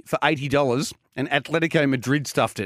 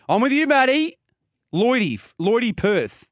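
fast confident tipster hype; 9 semitones higher, slower than usual. Real, not acted. Radio tipster backing his pick.

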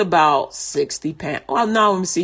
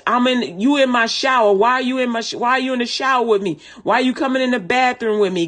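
higher, raised yelling at an intruder; mock scream demo; 5 semitones higher than usual. Shown as a demonstration. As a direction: shout them out of the room.

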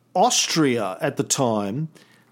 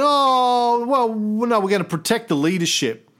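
mock British official; 8 semitones higher than usual. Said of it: "They went".

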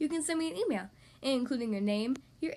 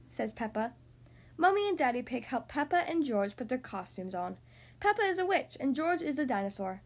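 put-on lively read-aloud for little kids; storybook narration. A narrator's reading. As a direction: read it like bedtime story time. Reads picture book aloud.

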